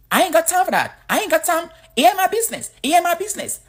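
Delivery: high, loud Black American accent impression; imitating Black American talk. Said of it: "That's how they talk".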